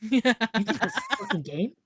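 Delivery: menacing movie villain line; dramatic villain voice. Pretend. Movie-quote voice.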